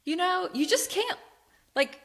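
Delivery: fed-up, incredulous whine; exasperated retelling. Retold or imitated. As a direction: complain in mock disbelief, stretching the key words. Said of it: "he was just like".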